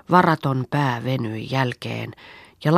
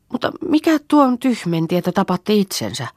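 shocked exclamation; 8 semitones higher, 4 dB louder than usual. Acted. Sanna shocked at the bear.

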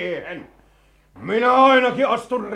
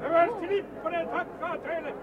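high-pitched parade-ground roar; roaring commands; 9 semitones higher than usual. Acted. Colonel rallying his rebel troops to overthrow the ruler, roaring. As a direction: bellow orders to troops from a distance. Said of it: "Niitä komentaa kauheasti karjuva mies".

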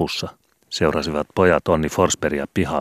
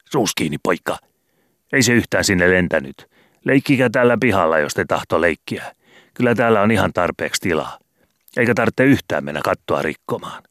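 scolding landlady; 3 semitones higher than usual. Acted. Landlady snaps at the boy on the roof, scolding. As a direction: nag the boys like a cross landlady.

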